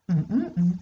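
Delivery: hummed blank after the start of the answer; placeholder hum. Shown as a demonstration. Teacher humming the gap for a pupil, hummed. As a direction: hum the missing word. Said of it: "qui commence par «Je préfère»".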